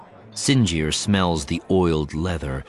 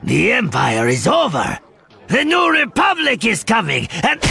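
high, loud, shaky defiance; shaky defiant voice; 4 dB louder than usual. A narrator's reading. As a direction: shout it through fear. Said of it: "growls in a shaky voice".

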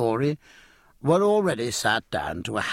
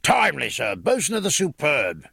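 tremendous voice; 4 semitones higher than usual. Acted. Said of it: "said a tremendous voice".

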